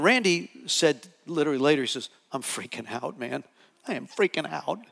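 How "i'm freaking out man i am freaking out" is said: low, hushed imitation of someone freaking out; retold freaked-out admission. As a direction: confess it under your breath, mock-rattled. Retells friend's shaken admission.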